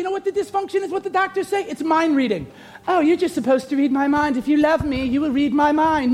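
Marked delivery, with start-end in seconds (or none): 2.9-6.1 mock English-accented demand. Mock partner demanding mind reading, in an English accent. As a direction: put on a light English accent. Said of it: "I'm using the English accent".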